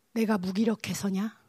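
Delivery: low, restrained questioning. Retold or imitated. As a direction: ask gently as God to a struggling leader. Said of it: "이렇게 질문하셨어요".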